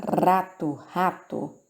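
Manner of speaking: "rato" with a strong guttural R at the start. Shown as a demonstration. Teacher demonstrating the strong R to students, clear and deliberate. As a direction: say "rato", starting on a raspy throat R. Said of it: "O R tem um som forte".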